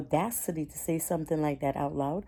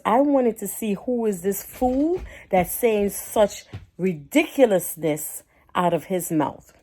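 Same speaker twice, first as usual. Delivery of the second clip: outraged; 5 semitones higher, 6 dB louder than usual. Real, not acted. Outraged retelling.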